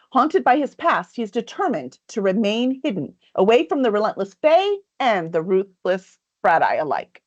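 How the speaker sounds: dramatic back-cover read, lightly performed; blurb reading. Acted. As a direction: read it like a book trailer, unhurried. Reads back cover copy.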